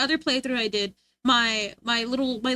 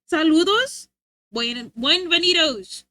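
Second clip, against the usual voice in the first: Spanish greeting; 3 semitones higher, slower than usual. Acted. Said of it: "I need to practice my Spanish".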